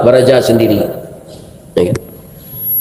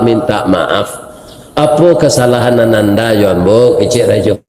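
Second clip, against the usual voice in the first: put-on humble young pilgrim. Young man begs the king's forgiveness for eating a fig, humble and earnest.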